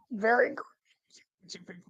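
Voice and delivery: slow words through laughter; laughing. Real, not acted. Cracking up at own joke.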